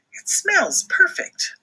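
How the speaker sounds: high, slow duck chef voice; high-pitched duck chef savoring his soup; Max the duck voice. Acted. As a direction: sniff and savor like a proud duck cook. Max character voice.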